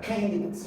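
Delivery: first syllable of "candidates" stressed; "candidates" with the beat up front. Shown as a demonstration. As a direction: lean on the CAN in "candidates". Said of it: "you stress on the first syllable".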